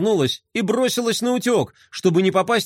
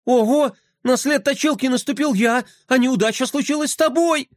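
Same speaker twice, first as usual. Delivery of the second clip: причитания; 9 semitones higher than usual. Acted. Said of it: "запричитал Флай".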